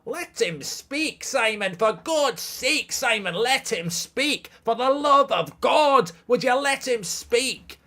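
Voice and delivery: high, slow, impassioned mock Scot; Scottish accent. Streamer as a Scot begging Simon, impassioned Scottish accent. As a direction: plead with hammed-up Scottish passion. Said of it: "I can do Scottish".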